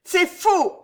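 high, loud yell; screamed denial. A narrator's reading. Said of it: "hurla l'espionne".

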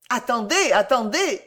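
mildly flustered pleading; little lawyer intervening. A narrator's reading. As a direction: beg them to hold on. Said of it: "dit le petit Perker".

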